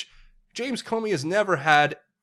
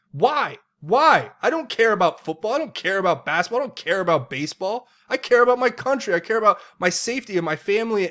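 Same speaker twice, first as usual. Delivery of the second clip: raised, louder, higher indignant shouting; angry rant; 7 semitones higher, 7 dB louder than usual. Real, not acted. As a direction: hammer each line out in outrage. Ranting against football protests.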